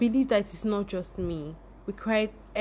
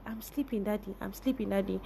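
softer, drowsy mock protest to her father; sleepy reply to dad; 8 dB quieter, faster than usual. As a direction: mumble it back half asleep, softly. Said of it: "And I'll be like".

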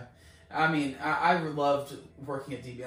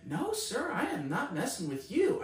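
calm reply; 6 semitones higher than usual. Retold or imitated. Healed woman answers the frantic caller, retold calm. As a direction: mimic her unruffled assurance. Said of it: "she's so calm".

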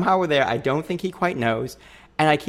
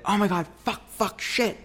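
high, hushed fake panic; 8 semitones higher, 3 dB quieter than usual. At the airport kiosk, faking panic in front of her boyfriend, high and hushed. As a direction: pretend you forgot something, swearing in a high voice.

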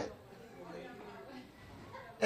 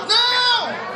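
loud, high, stretched-out cry; emphatic shout; 11 semitones higher, 7 dB louder than usual. Acted. Comedian to audience punching the joke, emphatic shout. Punchline after mock doll complaint.

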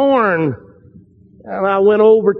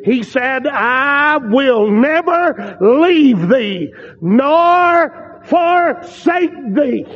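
slow, raised preacher's voice; fervent preaching; 3 semitones higher, slower than usual. Acted. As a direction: proclaim the promise, drawing out the key words. Preaches the promise at force.

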